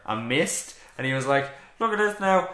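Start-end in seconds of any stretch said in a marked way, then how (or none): 1.8-2.5 lightly mimicked pundit voice, raised; a hint of TV pundit enthusiasm; Robbie Savage impression. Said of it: "that was bad".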